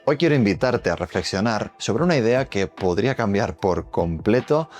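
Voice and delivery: hyped-up YouTube intro voiceover; clickbait video narrator. Acted. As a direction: tease the viewer to keep watching. Video intro voiceover over music.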